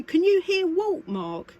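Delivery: ordinary delivery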